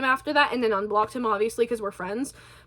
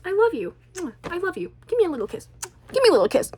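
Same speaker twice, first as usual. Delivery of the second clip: cutesy higher-pitched sweet talk; playful affection; 6 semitones higher, faster than usual. Pretend. Loving message to friends watching the video, playfully affectionate. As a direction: lay on mock-smitten affection for friends.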